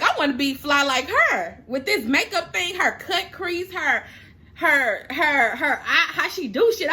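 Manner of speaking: giggly tearful gush; laughing through tears. Real, not acted. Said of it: "I'm emotional".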